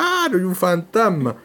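mildly acted alarm, stretched on the first word; mock frightened cry. Preacher mimics disciples crying out at the ghost, mock frightened cry. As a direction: imitate a frightened cry without full force. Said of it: "Y empiezan a gritar".

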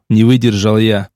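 usual speaking voice

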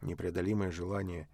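plain reading voice

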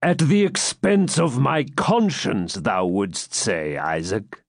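slow, sneering knight; mocking knight. Baron taunting the hesitant captive, mockery. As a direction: taunt him with cruel amusement.

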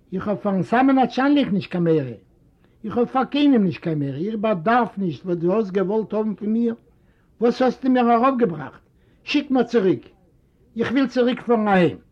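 lightly voiced bitter old man; complaining old father. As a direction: beg to be sent back home. Old father complains, wants back.

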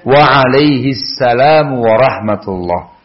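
ucapkan jawaban Arab dengan pelan; bacaan pelan. Acted. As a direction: lantunkan jawaban Aisyah perlahan. Jawaban Aisyah dibacakan. (bacaan jawaban salam yang pelan)

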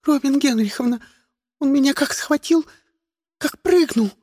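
high, tearful near-wail; girl complaining to her teacher, hysterical and tearful. A narrator's reading. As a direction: whine it on the edge of tears. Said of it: "голос истерическими нотками".

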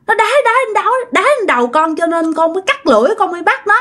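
high, tearful pleading wail; crying ghost. Acted. Ghost of Hằng crying her story to the monk, high tearful wail. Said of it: "mới khóc, mới nói rằng á".

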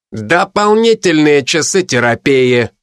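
slow, gloating punishment; sneering panto villain. Acted. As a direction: deliver it like a villain's verdict. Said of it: "злорадно произнёс он". (злорадно и медленно)

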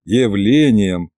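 slow, low mocking repeat; sarcastic drawn-out echo. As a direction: mimic him with scorn. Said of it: "передразнил я".

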